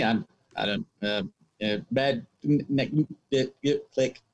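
faked breaking phone line; words cutting out on a bad connection; over the phone. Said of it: "pretending to have a bad connection".

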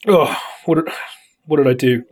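talking through a burp; words caught behind a burp. Real, not acted. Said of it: "sorry, I tried to burp".

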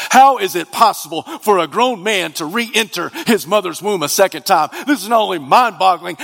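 animated, incredulous pulpit delivery; punchy sermon voice; impassioned preaching. Acted. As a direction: preach it with rising disbelief. Impassioned preaching in rapid build.

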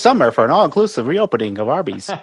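a laughing, lightly hammed radio-ad pitch; mock ad read. Guest riffs on a slogan, mock commercial voice. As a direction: play a cheesy fast-food announcer while laughing. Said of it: "That almost sounds like marketing".

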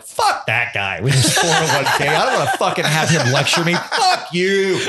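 hammed-up annoyed crowd member in a put-on voice; mock angry heckler. Comic mimics hostile audience, mock annoyed. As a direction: grumble like a fed-up audience member. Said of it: "people are like".

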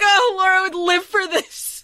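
a fan who can't contain herself; high excited gush about Laura; gushing fangirl voice. Retold or imitated. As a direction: squeal it way up high, giddy. Imagined excited fan reaction.

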